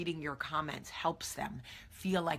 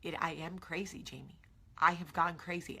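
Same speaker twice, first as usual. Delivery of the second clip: imitated crying listener. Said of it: "who are crying, going".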